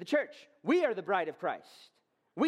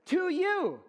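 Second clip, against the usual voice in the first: preaching shout; 8 semitones higher, much slower than usual. Real, not acted. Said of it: "sort of shouting at you".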